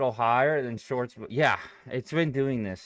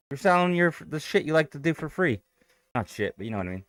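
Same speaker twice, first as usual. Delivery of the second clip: breathless, gasping between phrases; out of breath. Real, not acted. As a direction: talk while still catching your breath. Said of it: "I'm, like, out of breath".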